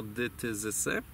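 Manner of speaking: "dy, ty, zysy" made against the teeth, syllable by syllable; teeth consonants. Shown as a demonstration. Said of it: "mogą powstać na zębach". (zębowe "dy, ty, zysy" sylaba po sylabie)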